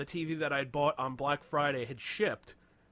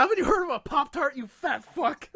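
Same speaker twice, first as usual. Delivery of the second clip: higher, louder jeering taunt; mocking the pie-loving customer, loud; 9 semitones higher, 8 dB louder than usual. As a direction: jeer at him like a bully. Mock insult to the customer.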